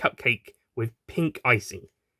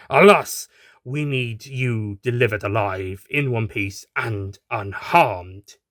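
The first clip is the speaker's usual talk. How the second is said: thug; 3 dB louder, slower than usual. Acted. Thug's threat continues.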